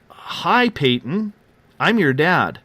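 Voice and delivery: high-pitched hello, easing down; retold greeting to newborn. New father poking his newborn's hand, retold gentle greeting. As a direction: re-enact a shy hello to a baby, starting high.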